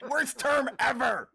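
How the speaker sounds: loud, high-pitched yell of disgust; ear-hurting outburst. Real, not acted. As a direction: yell it out in real, over-the-top protest. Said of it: "You're hurting my ears".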